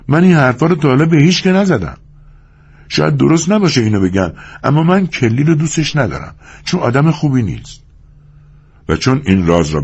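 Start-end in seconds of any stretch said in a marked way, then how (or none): 0.1-7.8 higher-pitched woman's voice, confessional; confiding wife. Acted. Curley's wife confessing dislike of her husband, confiding.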